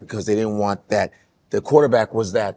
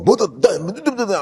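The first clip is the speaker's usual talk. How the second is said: imitating a girl; 8 semitones higher than usual. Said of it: "some Asian girl".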